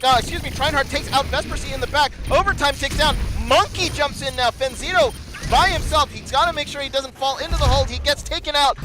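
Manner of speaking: high-energy fight calling; excited play-by-play. Real, not acted. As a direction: keep the energy high, push through.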